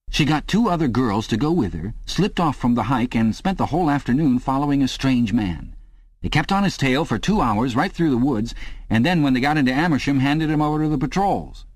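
boast, getting carried away; eager hearty neighbour. A narrator's reading. Parsons voiced in story.

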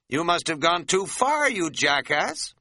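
cross with himself. Retold or imitated. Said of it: "I was getting a little cross with myself".

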